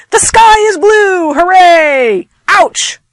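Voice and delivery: high, loud exclamatory shouts; a little bit exploding. Shown as a demonstration. Teacher reading exclamation-point examples, exploding. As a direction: burst out with each exclamation. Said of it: "as if you're just a little bit exploding".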